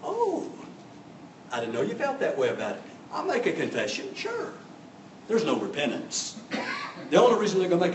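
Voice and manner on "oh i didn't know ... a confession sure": defensive. Retold or imitated. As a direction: feign a soft, defensive surrender. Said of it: "throw up their hands defensively and say".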